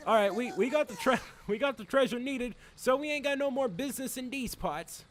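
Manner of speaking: put-on high-pitched henchman with a would-be Irish accent. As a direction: play the gang member in a hammed-up accent. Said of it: "snap in and out of the accent".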